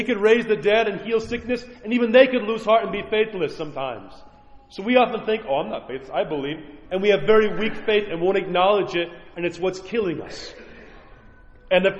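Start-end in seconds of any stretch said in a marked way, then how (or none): 5.5-6.6 smug self-assurance. Pretend. Self-assured believer voiced.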